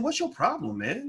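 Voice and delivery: high, heated challenge; retold angry retort. Young man snapping back at the bulky football player, heated. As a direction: fire it up high at the big guy. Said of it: "So I got mad".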